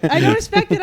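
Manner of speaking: high, loud, laughing insistence; emphatic exclaim. Real, not acted. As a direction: proclaim it boldly. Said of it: "I can tell you don't respect it".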